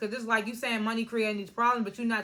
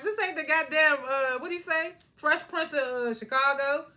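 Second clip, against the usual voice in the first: laughing retelling; 5 semitones higher, 4 dB louder than usual. Retold or imitated. Quoting Emmett through laughter.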